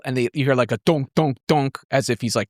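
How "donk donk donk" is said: evenly spaced donks; imitated glass tapping. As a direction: mimic knocking on glass with the voice. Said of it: "tapping the glass".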